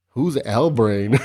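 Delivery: slow, laughing "Who's El Brain?" with a rise on "El"; a hint of a giggly Valley Girl. Friend asking about a name, light Valley Girl voice. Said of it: "all Valley Girl style".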